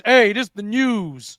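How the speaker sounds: slow mock newsman, lightly deepened; deep news voice. Mock old-time news anchor, slow and only lightly deepened. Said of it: "Deep voice".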